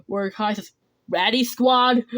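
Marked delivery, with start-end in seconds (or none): 1.1-2.1 shouted team call; rallying shout. Acted. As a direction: call the squad loudly. Kai calls the team.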